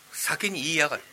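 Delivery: ordinary delivery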